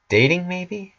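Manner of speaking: rising high, tentative question; cautiously asking Pinkie out. Acted. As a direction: ask it carefully, hoping. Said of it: "she finishes cautiously".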